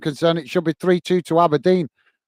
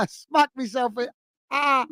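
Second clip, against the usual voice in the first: pained, laughing after banging elbow; hit my funny bone; 8 semitones higher, 4 dB quieter than usual. Real, not acted. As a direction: wince through the words, elbow throbbing. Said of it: "I've just whacked my funny bone".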